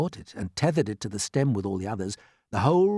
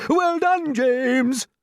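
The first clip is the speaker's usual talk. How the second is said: excited praise; 13 semitones higher, 7 dB louder, much slower than usual. Acted. Grasshopper cheering James.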